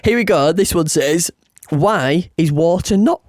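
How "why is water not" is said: speaking through hiccups; interrupted by hiccups; hiccuping. Real, not acted. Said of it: "Sorry, I keep hiccuping".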